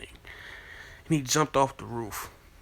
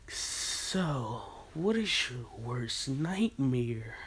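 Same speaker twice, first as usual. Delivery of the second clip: menacing taunt; 6 dB quieter, much slower than usual. Acted. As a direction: lean in and savour the threat. Naruto taunts the attackers.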